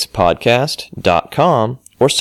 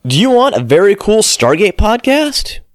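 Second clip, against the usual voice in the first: booming arrogant alien overlord; 3 semitones higher than usual. Acted. Voice-over for a Stargate podcast promo.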